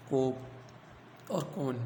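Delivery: कोप और कौन drawn out very slowly, vowels held long; slow demo. Shown as a demonstration. Teacher reading example words to the class, very slowly drawn out. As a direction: stretch कौन so the औ rings. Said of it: "teacher demonstrating example words".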